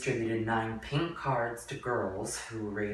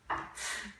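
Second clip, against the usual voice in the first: nervous giggle; 6 dB quieter than usual. Acted. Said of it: "She started to giggle nervously".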